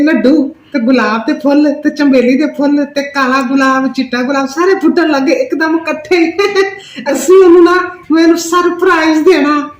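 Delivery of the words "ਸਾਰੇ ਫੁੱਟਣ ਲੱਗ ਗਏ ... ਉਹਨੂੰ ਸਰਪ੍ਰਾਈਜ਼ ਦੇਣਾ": laughing. Acted. Laughing with joy on phone.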